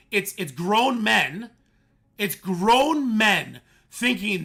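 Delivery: loud, exasperated; heated rant. Real, not acted. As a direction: tag. Streamer rants about grown men.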